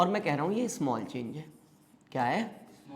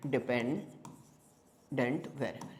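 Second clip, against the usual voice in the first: low, soft, drawn-out term for note-taking; slow dictation; 5 semitones lower, 7 dB quieter, much slower than usual. Shown as a demonstration. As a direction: break it up, pausing inside डिपेंडेंट. Spells out term while teaching.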